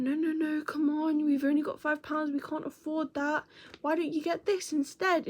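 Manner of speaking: lightly voiced older brother coaxing; reasoning big brother. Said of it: "her brother was going".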